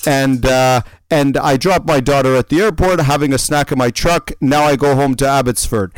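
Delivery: imitated European-ish accent. Stranger explaining his snack in the truck, European accent. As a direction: attempt at a stranger's Russian-like accent. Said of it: "a heavy European-ish accent".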